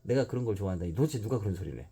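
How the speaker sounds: 높고 크게 버럭 화내기; 발끈해서 쏘아붙이듯; angry outburst. Acted. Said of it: "버럭 화를 냈다". (유마가 신영에게 버럭 화내며)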